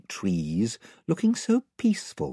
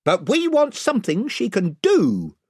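raised voice of a gang chief; 11 semitones higher, 4 dB louder than usual. A narrator's reading. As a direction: warn them off as spokesman, pitched up. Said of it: "said the chief voice".

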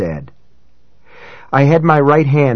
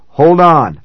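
calling back; 4 semitones higher, 6 dB louder than usual. A narrator's reading. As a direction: call back loudly. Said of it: "I called back".

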